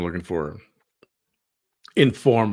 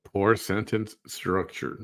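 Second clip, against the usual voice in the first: mocking echo. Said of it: "She's, she's given grammar lessons now".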